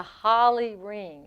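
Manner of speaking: Harley ring as "holly ring"; dropped R. Retold or imitated. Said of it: "She never says R".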